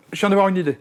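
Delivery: high-pitched imitation of an eager caller; excited caller. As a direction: blurt it high, as if phoning with news. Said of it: "qui m'appelle".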